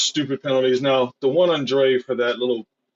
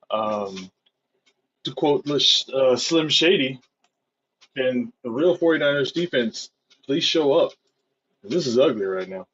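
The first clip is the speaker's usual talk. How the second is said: hungover. Real, not acted. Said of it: "Sorry if I sound weird".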